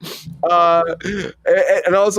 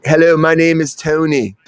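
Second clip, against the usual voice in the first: creepy, louder put-on greeting; creepy Anthony Hopkins; 4 dB louder than usual. Co-host imitates the actor introducing himself on set, creepy. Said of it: "it's very creepy the way he did".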